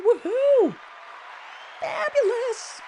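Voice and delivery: very high, drawn-out celebratory whoop; excited cheer. Real, not acted. Host cheering a viewer's accepted offer, high excited whoop.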